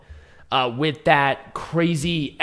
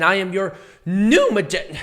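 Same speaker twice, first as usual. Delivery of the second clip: hoarse, cracking voice; lost voice; 3 semitones higher, slower than usual. Real, not acted. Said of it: "why I sound like a frog and a prepubescent teenager".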